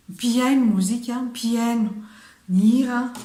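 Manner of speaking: loud, emphatic model phrase; demo phrase. Shown as a demonstration. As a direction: say it out loud for the class. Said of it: "demo Malagasy phrase".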